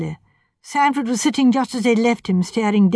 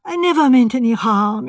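piteous; 3 semitones higher, 3 dB louder than usual. Acted. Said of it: "he said piteously".

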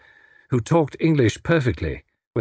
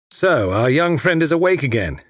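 lightly voiced smug inspector, pitched up; gloating villain; 4 semitones higher than usual. Villain gloats over captive.

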